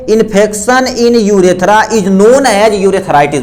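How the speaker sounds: very slow, word by word; slow dictation. Shown as a demonstration. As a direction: read the definition out slowly for notes. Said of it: "लिखेंगे, क्या लिखेंगे?".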